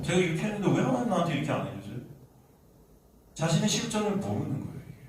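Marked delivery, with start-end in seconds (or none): 0.0-2.0 quick mock protest to God; pushy complaint. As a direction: rattle off the grievance, demanding an answer. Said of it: "들이밀면서". (따지듯 빠르게 항의하는 말투)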